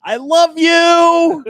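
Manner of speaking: high, loud, long drawn-out call; sing-out holler, stretched right to the end; mock loving yell. Traffic worker answering furious driver, mock loving yell. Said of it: "I'm like this".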